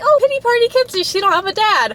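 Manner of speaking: high, whiny sarcastic voice; exaggerated sing-song pity-party voice; mocking self-pity. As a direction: parody how others would mock her. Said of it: "I'm not trying to be like".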